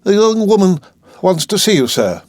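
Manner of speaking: a touch of hesitation, reporting a visitor; hesitant housekeeper. Acted. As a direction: housekeeper unsure how to announce her. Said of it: "speaking hesitatingly and evidently perplexed".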